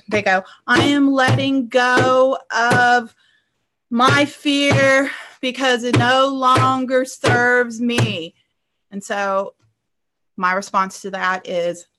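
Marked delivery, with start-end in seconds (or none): 0.7-8.3 slow, drawn-out half-hearted declaration; mild, plodding mock affirmation; unconvinced client. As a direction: imitate a client dutifully reciting, unconvincingly. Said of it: "this is what most of my clients do".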